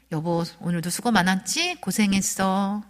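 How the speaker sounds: gentle, tender welcome home; slow down warmly on the last words; warm greeting. Shown as a demonstration. Wife welcoming husband home from work, warmly. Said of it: "따뜻하게".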